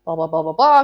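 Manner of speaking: a salesperson seizing the opening; eager pitch. Retold or imitated. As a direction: jump in with bright sales enthusiasm. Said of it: "continue the pitch".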